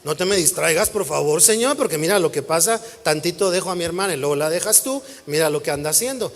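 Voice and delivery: half-joking protest at God; mock complaint to God. Pastor imagining himself scolding God over his sister, mock pleading. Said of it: "¿O ahí le diría".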